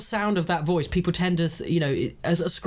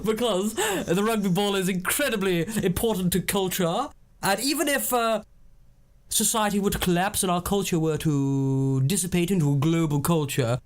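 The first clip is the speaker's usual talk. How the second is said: mock upper-class pontificating; lightly put-on posh lecture; posh voice. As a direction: hold forth like a pompous toff. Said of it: "What would I say".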